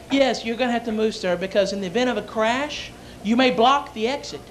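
a hint of an official stewardess; measured flight-attendant explanation. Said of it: "the stewardess comes up to me".

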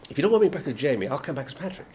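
a light take on Patrick Troughton, quick; lightly voiced Doctor. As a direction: slip briefly into Patrick's manner. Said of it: "Now that you do the voice".

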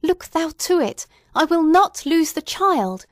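high, loud, desperate plea; mother begs the young minister to speak for her, high and loud; wild appeal. A narrator's reading. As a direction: beg the pastor wildly, on the edge of madness. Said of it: "this wild and singular appeal".

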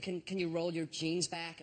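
slow, careful courteous request; imitating a hesitant, polite officer. Airport guard asking to see the artificial leg, polite. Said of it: "And he was so polite".

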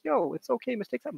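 high, easygoing forgiving voice. Retold or imitated. Imagined reply to the student's apology, high easygoing forgiveness. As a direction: brush it off kindly. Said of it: "I would have been like".

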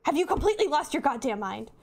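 lightly acted, indignant letter writer; dramatic letter reading. Letter writer scolding an old friend, dramatic reading. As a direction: read it with mild theatrical reproach. Reads a game letter in character.

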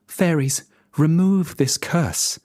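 put-on queen clutches her baby and demands help; demanding queen. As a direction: order the fairies to undo it. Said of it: "demanded the queen".

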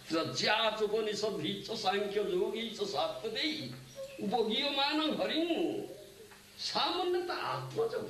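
measured, sustained scripture recital; intoned Sanskrit shloka; Sanskrit verse recitation. Real, not acted. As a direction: recite the verse with long-held line endings. Recites the verse a second time.

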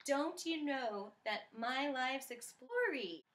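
slow, drawn-out faux British lilt; faux British accent. Singer reciting the lyric slowly in a faux British accent. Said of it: "I'm gonna talk however I want".

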